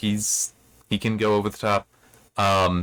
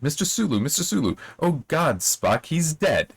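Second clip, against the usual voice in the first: higher, anguished mock cry, slowing at the end; lightly voiced overwrought doctor crying out; Doctor McCoy imitation; 7 semitones higher than usual. A narrator's reading. Sulu parodying McCoy's famous line, hammed-up cry. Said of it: "In uncanny imitation of Doctor McCoy, he cried".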